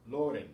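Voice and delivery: "Loren" with a loud first syllable "Lo"; stress on next-to-last syllable. Shown as a demonstration. Teacher reads words ending in N, "Loren" stressed on "Lo". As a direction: punch "Lo", let "ren" fall in "Loren". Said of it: "following the same rule".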